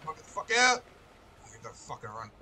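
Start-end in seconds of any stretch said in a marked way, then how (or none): 0.1-0.8 high, full-volume tirade; panicked screaming. Real, not acted. Streamer fleeing crazy chicken broad, panicked screaming. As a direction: scream them out of your way.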